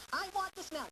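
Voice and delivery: put-on high, demanding child's whine. Shown as a demonstration. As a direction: play a pushy kid whining for it. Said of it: "tone of voice".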